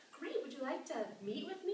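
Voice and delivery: lifted, hopeful ask; mock-bright offer to meet; eager invitation. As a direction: pitch it up like a keen mentor. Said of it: "I was like".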